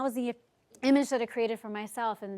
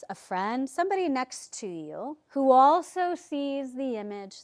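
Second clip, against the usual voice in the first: guided meditation. Acted. Leads a guided visualisation.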